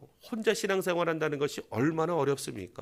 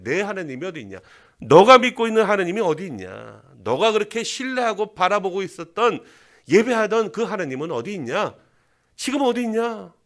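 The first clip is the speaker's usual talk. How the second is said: jeering, swelling louder, with a put-on sneer; mocking taunt; 3 semitones higher, 5 dB louder than usual. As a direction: throw the question in his face. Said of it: "조롱하고 있는 것이죠". (빈정거리며 조롱하는 목소리)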